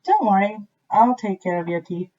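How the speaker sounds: mouse voice. A narrator's reading. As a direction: reassure like a brave small mouse. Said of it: "answered the mouse".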